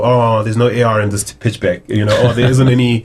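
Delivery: mock VC pitch talk in an American accent; lightly hammed-up American accent. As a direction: put on an American accent for a dismissive investor. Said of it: "I just went into an American accent".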